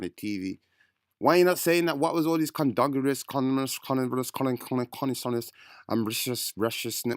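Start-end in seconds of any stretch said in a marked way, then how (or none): 2.0-7.2 stumbling parody of fancy words; mock-garbled highbrow vocabulary; mocking big words. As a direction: mangle the long words on purpose. Mangling the guest's long words.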